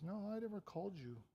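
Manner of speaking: priest Eli. Acted. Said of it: "And Eli says".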